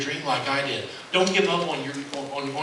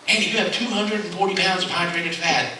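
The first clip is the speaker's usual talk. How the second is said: mock doctor verdict; 6 semitones higher than usual. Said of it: "what Jillian would say".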